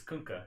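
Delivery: Kunkka with an "oo" vowel; corrected pronunciation. Shown as a demonstration. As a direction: say Kunkka as "KOONK-uh", matter-of-fact. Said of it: "how to pronounce his name".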